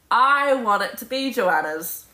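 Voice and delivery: usual speaking voice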